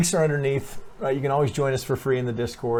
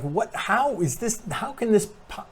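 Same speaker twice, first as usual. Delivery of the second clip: higher, slow, puzzled stammer; confused disbelief; 10 semitones higher than usual. Retold or imitated. Trader imitating a viewer stumped by the chart, puzzled and high. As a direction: sound lost as the pattern stops making sense. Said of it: "if you're like".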